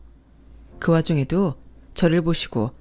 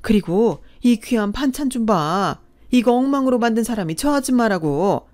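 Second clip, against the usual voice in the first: higher-pitched lady of the house, outraged; indignant rich wife; 3 semitones higher than usual. Acted. Wife confronting the rude woman in the lobby, indignant and higher. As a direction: defend her friend with shocked indignation.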